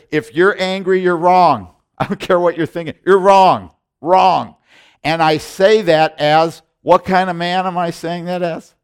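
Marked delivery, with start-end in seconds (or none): 0.1-4.6 fiery preaching. Real, not acted. Preaching hard against anger.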